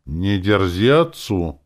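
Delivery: mother's strict rebuke; stern. A narrator's reading. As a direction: lay down the rule word by word. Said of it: "строго сказала Ольга Петровна".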